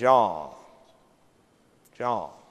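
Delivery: strong, very low, soft Southern drawl. Retelling his answer when asked about his bank's success, imitating Jimmy's strong Southern drawl. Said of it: "In his strong Southern drawl".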